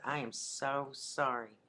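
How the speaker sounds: slow, drawn-out apology; imitated slow, earnest regret; heartfelt apology. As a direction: stretch out the apology, imitating contrition. Retells brother's contrite apology.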